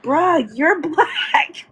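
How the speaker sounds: high, slow AAVE "bruh" with a laugh; african american accent. Retold or imitated. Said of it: "and I'm like".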